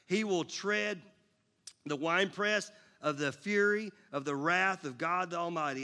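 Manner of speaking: a measured, proclaiming Bible read; scripture reading. Acted. Pastor reads Revelation to the congregation, proclaiming. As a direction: read it to the church with weight.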